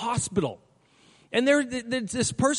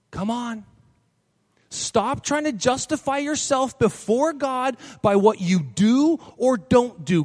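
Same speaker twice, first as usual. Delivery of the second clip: urgent exhortation; slower than usual. Acted. Preacher exhorting congregation.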